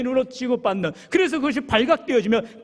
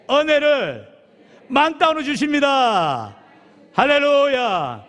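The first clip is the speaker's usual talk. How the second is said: slow, louder, building to a proclaimed hallelujah; rising preacher climax; 4 semitones higher, 5 dB louder, slower than usual. Shown as a demonstration. Pastor leads the congregation's climax, slow and louder. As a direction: pastor crowns the repeated line for the church, slow and louder. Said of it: "같이 따라해볼까요".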